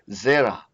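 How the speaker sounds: Zera stressed on the first syllable, ZE-ra; Hebrew word demo. Shown as a demonstration. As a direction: say Zera with weight on ZE. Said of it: "you see the accent here".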